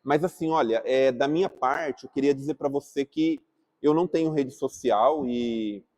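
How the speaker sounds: approach Alex kindly to clear things up; gentle reconciliation. Shown as a demonstration. Speaker reconciles with Alex after not replying, soft and gentle. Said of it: "posso chegar no Alex e falar".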